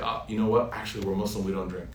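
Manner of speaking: polite, low-key refusal trailing down softly; gentle, nice. Shown as a demonstration. Diner politely declining a drink to the waiter, gently. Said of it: "you can say gently, nicely".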